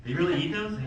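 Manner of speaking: low scheming aside, mock schemer; plotting girl. Little blonde girl plotting with friends, low scheming voice. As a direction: plot it under your breath, pitched low. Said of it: "plotting. She's like".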